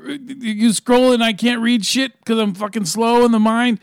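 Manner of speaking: scornful taunt building to a shout; taunting Rick. Acted. Rick daring Morty to shoot, rising to a yell. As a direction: goad him to pull the trigger.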